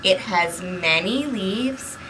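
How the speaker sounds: put-on lively read-aloud for small children; storybook narration. A narrator's reading. Librarian reading a picture book to kids, lively narration. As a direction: read the story to the little ones.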